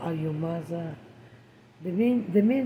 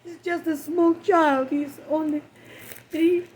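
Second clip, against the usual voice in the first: grief-stricken, rising; 4 semitones higher than usual. Real, not acted. Grieving mother after daughter's death.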